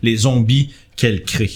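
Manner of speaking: description d'ambiance posée, un peu dramatique; narration de maître du jeu. A narrator's reading. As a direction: poser la scène pour les joueurs. GM describes the creature's stench. (le MJ décrit l'odeur de mort aux joueurs, ton de narrateur)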